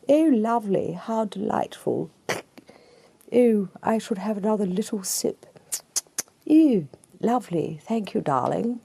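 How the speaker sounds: dainty put-on English manner; genteel English sipper. Preacher mocking how the English drink, genteel English voice. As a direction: play a very proper English tea-sipper. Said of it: "Do we drink like the English drink?".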